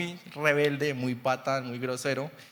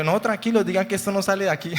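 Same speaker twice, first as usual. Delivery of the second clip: playful hush; 5 semitones higher, 5 dB louder, faster than usual. Retold or imitated. Playful reassurance to kids.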